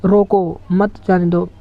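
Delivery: short break after रोको, then मत जाने दो as one phrase; pause after रोको. Shown as a demonstration. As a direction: set रोको apart from मत जाने दो. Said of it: "के बाद थोड़ा सा ब्रेक लिया".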